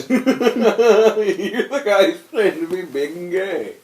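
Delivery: slow, laughing robot voice; a hint of a robot voice. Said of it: "Gay robot voice".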